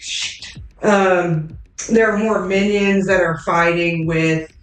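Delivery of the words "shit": whispered curse. Acted. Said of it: "It's like".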